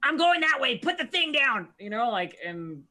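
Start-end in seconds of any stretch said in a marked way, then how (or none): 0.0-1.7 high, loud shouted order; urgent shout. Acted. Player's character ordering Malik to drop the wall, shouting. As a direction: shout a command to a teammate. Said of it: "I'm like".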